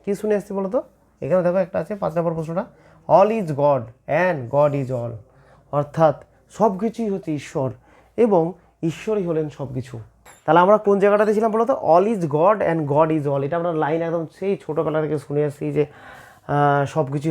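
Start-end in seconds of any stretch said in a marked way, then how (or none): 3.1-5.1 slow recitation. Shown as a demonstration. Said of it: "slow recited famous line". 11.7-13.4 slow recitation. Shown as a demonstration. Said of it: "repeats the famous line".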